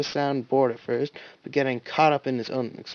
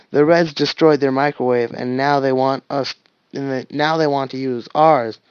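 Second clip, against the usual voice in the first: bored; 5 dB louder than usual. Acted. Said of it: "sounding bored".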